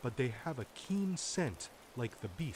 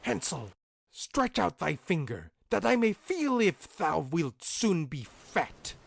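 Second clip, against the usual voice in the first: witch calling; 6 semitones higher, 8 dB louder than usual. A narrator's reading. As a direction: call into the stable like a greedy witch. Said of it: "crept to the little stable and cried".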